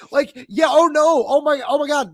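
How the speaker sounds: mock whining. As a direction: ham up the crybaby lament. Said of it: "save the whining".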